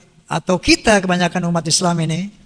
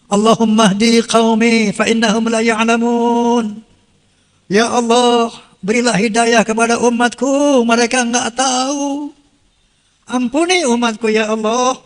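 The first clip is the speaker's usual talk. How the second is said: slow, pleading, louder prayer; prophet's prayer; 3 dB louder than usual. Acted. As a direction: plead to God for your people. (doa memohon dengan sungguh-sungguh)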